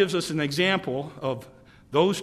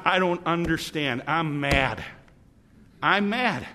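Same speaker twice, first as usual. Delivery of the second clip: angry prayer; 3 semitones higher than usual. Acted. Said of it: "we can get mad at God".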